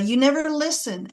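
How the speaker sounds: mild accusing demo; blaming statement. Shown as a demonstration. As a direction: say it as the blaming version. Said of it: "as an I statement might sound like".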